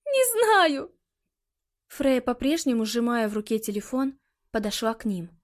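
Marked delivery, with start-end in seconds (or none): 0.1-0.9 high, tearful repeat; crying. A narrator's reading. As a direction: say it again through sobs. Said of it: "плача ответила Калиста".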